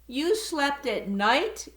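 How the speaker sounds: high gasping disbelief. Acted. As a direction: gasp the question in shock. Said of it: "gasped another".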